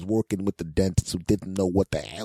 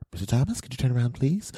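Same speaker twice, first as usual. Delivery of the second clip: higher-pitched, polite doctor request; imitated female doctor; 5 semitones higher, faster than usual. Doctor asks the patient to turn around, imitated high polite voice. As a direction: put on a high doctor voice, lilting up at the end.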